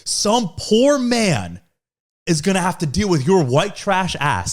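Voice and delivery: dad's insult retold, slow and pointed. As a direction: spell out the insult slowly. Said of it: "you go".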